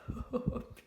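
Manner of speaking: soft breathy chuckle at own joke; short amused laugh. Real, not acted. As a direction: chuckle quietly to yourself. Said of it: "Qu'est-ce qu'on se marre".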